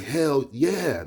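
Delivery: drawn-up cheer of agreement; fired up. Retold or imitated. Bookseller lifted by the visitor's energy, fired up. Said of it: "It's bringing me up".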